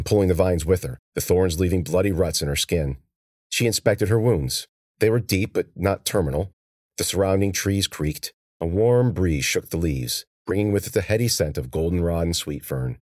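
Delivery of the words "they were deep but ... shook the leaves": usual speaking voice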